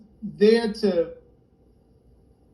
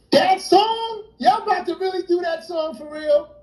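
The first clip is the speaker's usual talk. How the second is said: incredulous; 9 semitones higher than usual. Retold or imitated. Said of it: "disbelieving reply to Biff".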